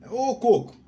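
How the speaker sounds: mocking nickname call. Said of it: "algumas pessoas chamavam de Coco".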